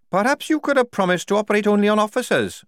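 disgruntled prisoner's complaint; Tonka, disgruntled captive. A narrator's reading. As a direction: grumble it high, well above the narration.

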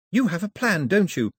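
high, pressing question, voiced; urgent hiss. A narrator's reading. Daphne presses Mao about his plan, urgent hiss. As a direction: press him urgently for an answer. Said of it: "Daphne hissed to Mao".

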